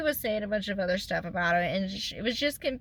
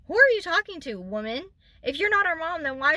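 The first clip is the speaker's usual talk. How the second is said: high, loud, indignant challenge; indignant outburst; 5 semitones higher, 4 dB louder than usual. Real, not acted. Venting at the stepmother, indignant outburst. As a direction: call her out in disbelief.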